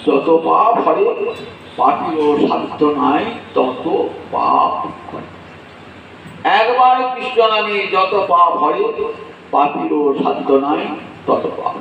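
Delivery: slow, measured recitation of a devotional couplet; slow solemn recitation; recited verse. Acted. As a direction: draw out each phrase like scripture.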